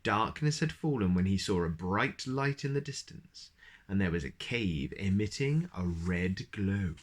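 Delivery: put-on reading a picture book to a child; story narration. A narrator's reading. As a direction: tell it gently like a bedtime story. Reads picture book aloud.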